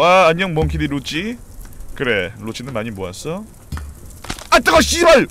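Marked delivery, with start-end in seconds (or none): 4.5-5.3 angry yelling. Real, not acted. Burned, yelling at crewmates.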